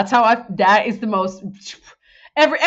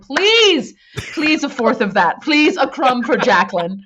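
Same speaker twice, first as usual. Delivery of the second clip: pleading; 4 semitones higher, 5 dB louder, slower than usual. Retold or imitated. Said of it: "And I'm like".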